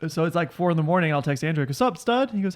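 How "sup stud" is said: much higher, jaunty greeting; acted buddy greeting. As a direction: play a chummy hello up high. Acting out morning text greeting.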